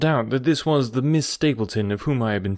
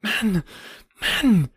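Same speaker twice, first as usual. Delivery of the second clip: higher, exasperated cry of a woman; cried out; 8 semitones higher than usual. A narrator's reading. Woman exasperated with a stubborn visitor, a mild cry. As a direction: call him out in frustration. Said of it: "she cried".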